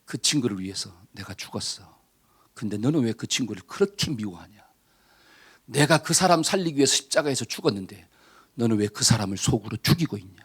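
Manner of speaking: lightly voiced God. Preacher lightly voicing God rebuking the angry man. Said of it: "하나님께서 하신 말씀이".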